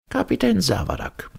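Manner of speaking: high, stern professor. A narrator's reading. Professor reprimanding the captain, stern. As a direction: address him severely in a high voice. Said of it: "entgegnete der Professor streng".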